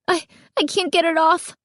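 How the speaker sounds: put-on high, frantic girl's voice tripping on words; girl stuck in a mask, sputtering high. A narrator's reading. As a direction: sputter it out in a panic. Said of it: "she sputtered".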